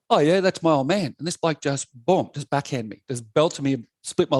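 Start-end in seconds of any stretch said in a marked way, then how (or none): 0.1-1.1 retold cocky young comeback, pitched up; imitating his own youthful cheek. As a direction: toss it back a little too cockily. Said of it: "I must have got cocky".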